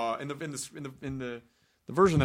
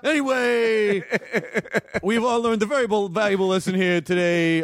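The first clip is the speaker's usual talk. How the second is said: hammed-up actress impression, pitched up and stretched out; Hathaway; 4 semitones higher than usual. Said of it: "No, that's my Hathaway".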